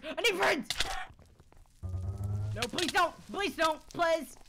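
high, loud, panicked squeaky pleas; pleading slime voice. Pretend. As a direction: beg like a terrified little slime.

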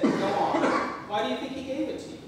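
high, fast pressing voice; high loud mother. Acted. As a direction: press him quickly and high.

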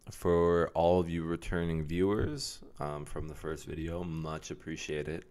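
mock-grateful welcome, loud at first; loud opening, then a dry, sarcastic thanks. Real, not acted. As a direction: thank viewers with deadpan sarcasm. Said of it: "I'm being completely sarcastic".

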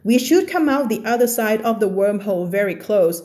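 very slow, careful reading of the text; slow reading aloud. Acted. Teacher reads the story text slowly to her class. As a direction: read the passage word by word for learners.

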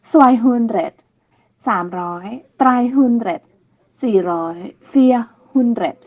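สวายฮุนเดรด said as zvai-hoon-dret; teacher models the German hundreds. Shown as a demonstration. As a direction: count the hundreds in German, clearly. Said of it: "จะออกเสียงว่า".

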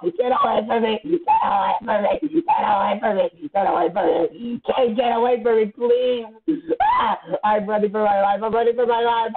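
high, frantic yells on repeat; panicked shouting. Real, not acted. Player begging an attacker to get away, panicked shouting. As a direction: shriek for help while on the run.

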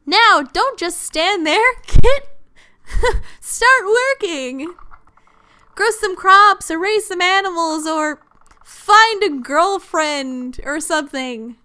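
impatient orders, stretched out; hammed-up taskmaster with little laughs; bossy game character. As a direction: order a slacker to get working. Character orders player to work.

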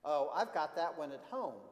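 put-on mildly excited child character; excitedly. Carlo recognises the librarian's favourite book, mildly excited. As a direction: pipe up with a touch of excitement. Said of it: "Carlo said excitedly".

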